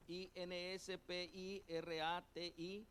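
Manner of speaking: "I N S P I R A T I" spelled again, letter by letter; slow letter-by-letter spelling. Shown as a demonstration. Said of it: "y acento en la O".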